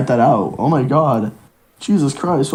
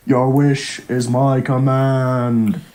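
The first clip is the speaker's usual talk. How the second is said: Shenron voice; 4 semitones lower, much slower than usual. Acted.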